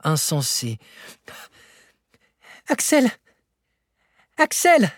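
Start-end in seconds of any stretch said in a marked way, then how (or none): 2.7-4.9 high, loud joyful shout of a name; ecstatic cry. A narrator's reading. Uncle calls his nephew over from the granite block, ecstatic shout. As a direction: call out the name in wild joy. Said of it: "s'écria-t-il".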